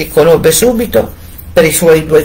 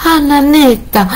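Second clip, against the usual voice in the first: higher anxious call to the tower; wife calls to her sister on the tower; 10 semitones higher than usual. A narrator's reading.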